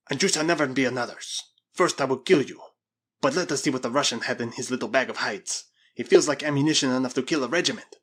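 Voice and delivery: lightly voiced, forceful captor; domineering Spaniard. Spaniard threatens the girl then eyes the bag, domineering. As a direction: state it with menace and emphasis.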